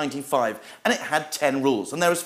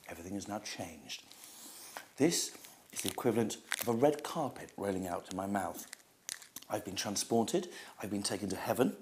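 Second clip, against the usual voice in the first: hushed food rapture; 4 semitones lower, 7 dB quieter than usual. Acted. Snack reviewer swooning over chocolate to viewers, hushed and rapturous. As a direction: savour every word as if tasting heaven.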